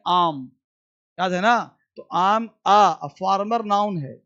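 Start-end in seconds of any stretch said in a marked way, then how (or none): 0.1-0.5 आम said as one syllable, 'aam'; contracted I am. Shown as a demonstration. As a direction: run I am together into आम. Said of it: "इसको पढ़ेंगे आम". ('आइ एम' को जोड़कर 'आम' बोलें)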